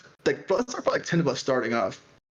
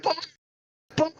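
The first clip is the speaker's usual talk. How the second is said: high sing-song taunting bye; mocking bye; 13 semitones higher, slower than usual. Fans taunting players leaving the field, high sing-song mock. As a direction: wave them off with a mocking lilt.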